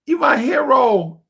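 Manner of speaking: lightly voiced grateful girl; girl's breathless praise. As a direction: swoon over her rescuer. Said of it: "she like".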